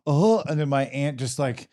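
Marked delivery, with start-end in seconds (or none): 0.0-0.4 retold excited "oh", slightly raised; mock-excited exclamation, higher pitched; excited gasp. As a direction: imitate a thrilled little reaction. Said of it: "look back all excited".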